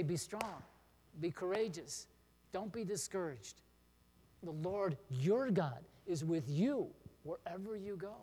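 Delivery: spoken to someone who is struggling, pauses between phrases; encouraging friend. Shown as a demonstration. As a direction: offer the verse as comfort. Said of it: "you can say".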